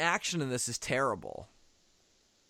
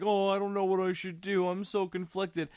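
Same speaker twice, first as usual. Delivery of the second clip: mock whiny Kong; 3 semitones higher than usual. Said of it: "why he's so like".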